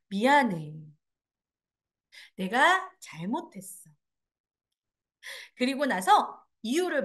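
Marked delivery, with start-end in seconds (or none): 0.1-3.9 low, slow, tender apology; sincere apology. Shown as a demonstration. Holding the hand while apologizing, sincere and tender. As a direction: own the fault gently, with pauses. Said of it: "눈빛을 촉촉하게".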